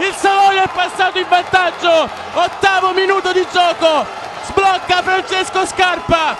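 high, elated play-by-play; excited goal recap. Real, not acted. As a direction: still buzzing after the goal. Celebrating the goal after. (telecronaca euforica dopo il gol)

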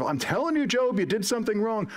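high-pitched, insistent mock accusing; acted accusation. Job's friend telling him off, insistent. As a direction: play a friend pressing the blame.

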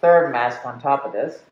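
muffled behind layered masks; speaking through stacked masks; through several face masks. Real, not acted. Seen 2: Stacked masks cover mouth throughout; face shield only goes on after.

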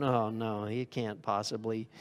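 low, soft dismissive scoff; head-wagging scorn. Retold or imitated. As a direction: dismiss him with a quiet headshake. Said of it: "they're just going".

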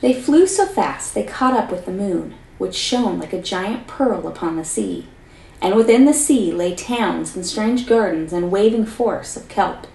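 lively read-aloud storyteller voice; story narration. A narrator's reading. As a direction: tell the fairy tale to a class, expressively. Teacher reads story aloud.

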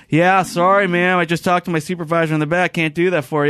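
retold kid employee. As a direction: imitate a kid giving a casual refusal. Retold offhand teenage employee refusing her request.

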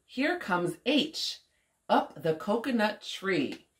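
put-on lilting, measured story reading for a child; picture-book read-aloud. A narrator's reading. Woman reading an alphabet story to young Omari, lilting read-aloud. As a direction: read it out rhythmically with playful swoops.

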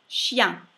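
"chien" loud, SH start and nasal ending; nicely nasal. Shown as a demonstration. Teacher models the French word, loud nasal ending. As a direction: punch "chien" with a full nasal vowel. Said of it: "Bella nasale".

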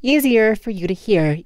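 slow, deliberate demo of a normal pace; slow right down and space the words. Shown as a demonstration. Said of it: "more pauses between my words".

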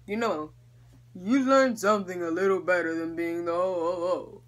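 a hint of a wise old Santa; understated Santa wisdom; lightly voiced Santa. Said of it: "Santa Claus is like".

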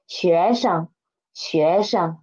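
轻声示范; tone demo. Shown as a demonstration. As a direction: drop the pitch on 生 after the rising 学. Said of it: "生's pitch should be lower than 学".

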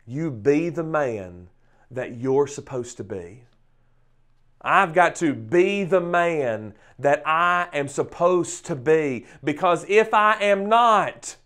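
measured charge that builds in force; very emphatic. Real, not acted. Preacher charging husbands and fathers to step up, emphatic. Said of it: "may I say something very emphatic".

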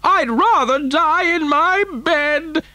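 very high, drawn-out granny screech; old woman's shout. A narrator's reading. Grandmother refusing to ride in the lift, screeched. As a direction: refuse in a slow, screeching wail. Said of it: "shouted Grandma Josephine".

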